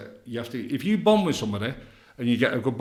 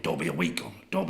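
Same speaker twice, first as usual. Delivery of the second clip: lower, imitating the voice heard in his head; 10 semitones lower, 4 dB quieter than usual. The bloke hears the counsellor's motto in his head, lower. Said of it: "all I could hear was that".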